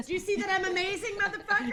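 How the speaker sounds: high, soft taunt; hiss-free soft threat; quiet menacing voice. Pretend. Acted menace to men.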